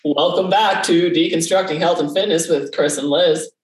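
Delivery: mock radio announcer opening. Shown as a demonstration. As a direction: put on the announcer voice to welcome listeners. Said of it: "radio announcer voice out".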